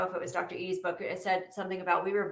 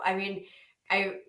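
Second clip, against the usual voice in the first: usual speaking voice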